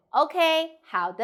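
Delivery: loud 好的, then stop; attention-getting pause. Shown as a demonstration. Teacher wanting students' attention, loud 好的 then a pause. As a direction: call out 好的 and wait for attention. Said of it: "I pause because I want to".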